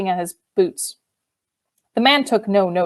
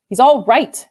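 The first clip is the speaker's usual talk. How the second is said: irritable; 4 semitones higher, 5 dB louder than usual. Acted. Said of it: "said Maxim irritably".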